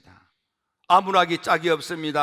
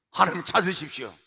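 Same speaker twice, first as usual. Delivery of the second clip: ordinary talk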